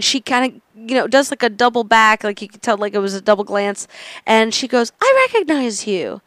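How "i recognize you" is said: higher-pitched imitation of a European accent; slight European accent. Retelling a woman recognizing her on a train, European accent. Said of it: "She had a little accent".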